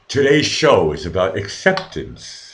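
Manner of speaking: slow, lightly put-on presenter voice; a touch of mock show-host delivery; fake voice. Shown as a demonstration. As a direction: announce it slowly in a mildly fake show voice. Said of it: "I like going into the fake voice".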